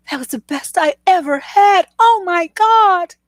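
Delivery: overacted moan of delight; mock ecstatic woman. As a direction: ham up a faked climax. Woman faking pleasure.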